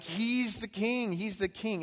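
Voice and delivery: a hint of demons crying out; mock demon cry. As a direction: wail it like a possessed demon. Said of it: "so the demons are like".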